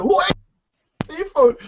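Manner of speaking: high imitated shout; hammed-up demand; mock angry yell.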